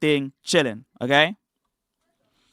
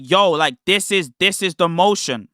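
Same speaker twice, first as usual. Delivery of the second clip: louder, punchy retelling of being hyped; retold hyped excitement; 4 dB louder than usual. Telling viewers how gassed he felt at the livestream, hyped. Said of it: "I felt so gassed".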